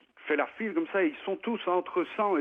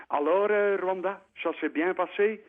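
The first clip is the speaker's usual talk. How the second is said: put-on Flemish accent; 5 semitones higher than usual. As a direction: play the Dutch-speaking minister in heavy Flemish French. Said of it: "alors je vous le fais avec l'accent".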